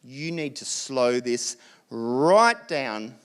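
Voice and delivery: a hint of stern parents reining in a rushed couple; worried parents. Parents warning the couple to slow down, lightly voiced stern caution. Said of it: "the parents are like".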